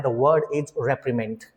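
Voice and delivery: "reprimand" drawn out slowly and clearly; slow reveal. Shown as a demonstration. Teacher introducing a new word, slow and deliberate. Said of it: "slow word reveal".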